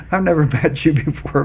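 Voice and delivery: words broken by real laughter; laughing. Real, not acted. Telling the billionaire he's never met him, laughing through it. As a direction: laugh through the line, amused disbelief. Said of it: "I started laughing".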